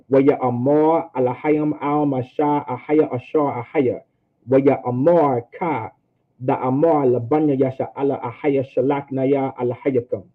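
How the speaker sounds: running the words together fluently; fluent recitation. Shown as a demonstration. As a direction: say the Hebrew verse in smooth connected phrases. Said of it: "say it just like that".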